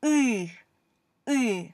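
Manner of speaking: "ooh" said as a mix of an uh and an e, the second take breathed out; teacher demo of the tricky "ooh" sound; hard Russian vowel. Shown as a demonstration. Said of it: "this sound is really hard for English speakers to make".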